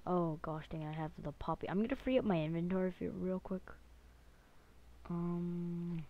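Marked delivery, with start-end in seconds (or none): 0.1-3.6 talking while chewing gum; words round a wad of gum. Real, not acted. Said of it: "I have some gum in my mouth".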